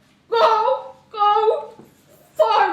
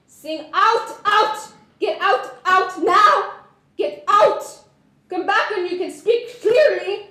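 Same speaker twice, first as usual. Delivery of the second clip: harsh commands; 4 dB louder than usual. Acted. Voice coach bullying in memory.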